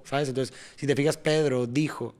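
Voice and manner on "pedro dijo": "Pedro dijo" with a beat on PE and DI; rhythmic stress. Shown as a demonstration. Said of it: "ahí empieza ahí la rítmica". ("Pedro dijo" marcando el ritmo)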